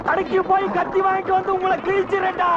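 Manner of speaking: ordinary delivery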